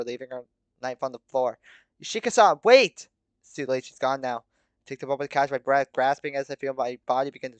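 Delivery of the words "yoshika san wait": high, urgent shout; calling out. A narrator's reading. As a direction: call after someone getting away. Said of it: "before I could call out to her".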